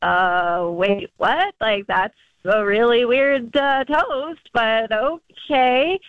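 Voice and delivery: hesitant, puzzled mock reaction; drawn-out, questioning awkwardness; retold confused guests. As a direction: play a baffled crowd, unsure and halting. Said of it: "everybody's pretty quiet and looking around like".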